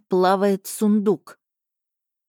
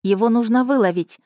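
urgent, loud and higher; blurted out; 4 semitones higher, 3 dB louder than usual. Acted. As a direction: blurt it out fast. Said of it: "выпалила я". (выпалила взволнованно)

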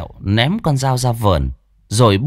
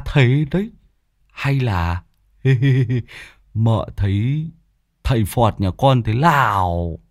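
pitiful voice; 3 semitones higher than usual. Acted. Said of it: "buông giọng tội nghiệp".

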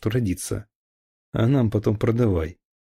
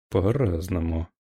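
evasive; 4 semitones lower than usual. Acted. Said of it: "уклончиво ответил Дорожкин".

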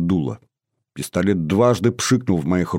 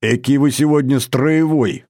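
smiling; 5 semitones higher than usual. A narrator's reading. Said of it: "улыбнулся Юрий Владимирович".

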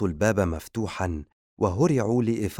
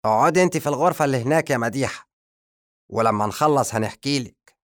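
higher, louder, fast eager voice; magician's voice; 5 semitones higher, 5 dB louder, faster than usual. Acted. The magician addressing the guest, higher and eager. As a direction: rush it out keenly like a scheming wizard. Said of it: "نظر الساحر لمديحة وهو يقول".

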